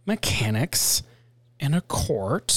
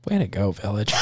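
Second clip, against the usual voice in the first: mock cheer; 8 semitones lower, faster than usual. Real, not acted. Cheering the distributor.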